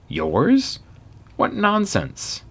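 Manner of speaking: doctor can't believe the healthy man will die; shocked disbelief. A narrator's reading. Doctor shocked at dying claim.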